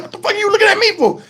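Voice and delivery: high, rapid-fire mock confrontation; mock childish challenge. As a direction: fire it off like a kid picking a fight. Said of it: "It was like that little kid shit".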